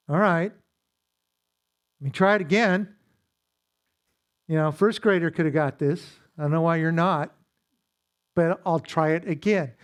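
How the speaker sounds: mildly exasperated retelling, words pushed out; impatient, emphatic mock retort; mock irritation. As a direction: act out strained patience with someone who isn't getting it. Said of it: "Now I'm irritated".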